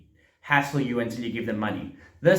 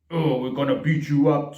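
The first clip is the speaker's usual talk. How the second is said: threatening cop. Retold or imitated. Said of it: "they go from, like, this".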